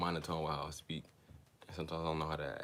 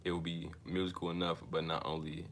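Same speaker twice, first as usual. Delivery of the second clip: measured, deliberate book reading; reading aloud. Real, not acted. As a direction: read it out evenly, phrase by phrase.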